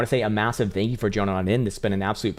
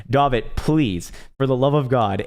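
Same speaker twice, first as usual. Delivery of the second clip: exasperated plea; 4 semitones higher, slower than usual. Real, not acted.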